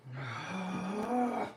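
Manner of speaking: long breathy groan; zombie groan. Real, not acted. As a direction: let out a weary zombie moan. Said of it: "that noise you made was funny".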